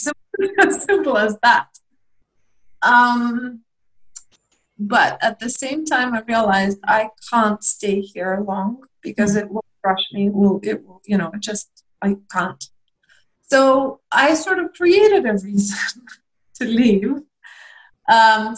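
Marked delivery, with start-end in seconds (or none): 0.0-1.7 laughing. Real, not acted. Laughing at her own simple reason. 13.5-17.2 laughing. Real, not acted. Laughs admitting an invented excuse.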